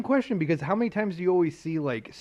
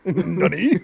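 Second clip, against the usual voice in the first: put-on high, louder anime girl squeal; giggly anime girl nani; cute anime streamer; 8 semitones higher, 6 dB louder than usual. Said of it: "sounding like an anime girl".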